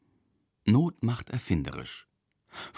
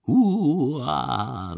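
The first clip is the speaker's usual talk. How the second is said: spooky scare growl; 4 dB louder than usual. Acted. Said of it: "verstellt seine Stimme".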